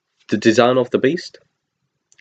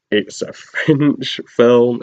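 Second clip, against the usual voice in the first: sarcastic; 3 semitones higher, much slower than usual. Real, not acted. Mocking the Cockney accent choice.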